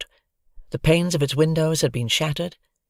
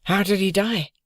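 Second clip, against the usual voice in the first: put-on higher child's voice, wary; fearing the answer; child character, worried; 4 semitones higher than usual. A narrator's reading. Child asks.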